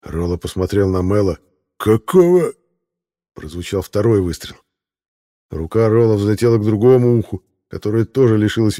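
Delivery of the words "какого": high, startled cry; shocked yelp. Acted. Rollo shot in the ear, shocked high yelp. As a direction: jolt up in shock.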